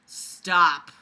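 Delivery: building to an exasperated yell; exasperated shout at the story; frustrated. Real, not acted. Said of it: "frustrated at own writing".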